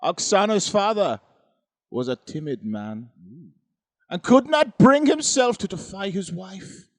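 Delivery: put-on theatrical, swooping Eastern European accent; mock Ukrainian accent. Reading the ghost story aloud, hammed-up Ukrainian accent. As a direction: ham it up in a bad Ukrainian accent, bursts high and loud then dropping. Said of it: "you made me do the accent".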